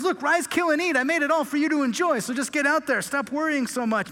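lightly voiced easygoing God; a relaxed, generous go-ahead; God to Peter. God telling Peter to relax and enjoy, lightly voiced. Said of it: "He looks at Peter and goes".

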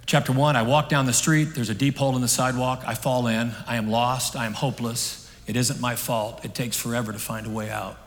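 measured chapter-by-chapter reading, easing off; recited reading. Acted. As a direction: read it out in short declarative lines. Reads a closing illustration aloud.

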